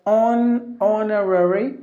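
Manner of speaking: HONORARY in American, full "on-uh-rare-ee"; American pronunciation. Shown as a demonstration. Teacher showing learners the American way, American pronunciation. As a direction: say HONORARY the American way, every syllable kept. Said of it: "when you go to the American way".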